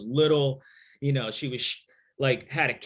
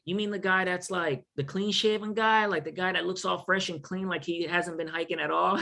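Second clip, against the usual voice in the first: lightly voiced, incredulous day hiker, pitched up; a touch of disbelief, higher; amazed day hiker; 4 semitones higher than usual. Day hiker describing him, amazed.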